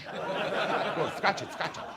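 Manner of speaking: high, insistent diva command; mock urgent order. Boy ordering his sister to scratch, urgently bossy. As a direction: demand it with helpless urgency.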